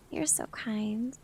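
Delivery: soft, slow whisper. Real, not acted. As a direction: breathe the thanks in a whisper. Thanks viewer softly.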